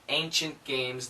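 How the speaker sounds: ancient games said quick, the T dropped. Shown as a demonstration. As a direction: run ancient games together with no T. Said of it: "the N can cancel that".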